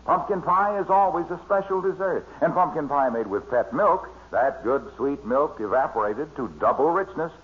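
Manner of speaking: smooth radio ad pitch; glowing commercial read for the pie. Acted. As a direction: sell the pumpkin pie like an announcer. Guest slips into a pie commercial.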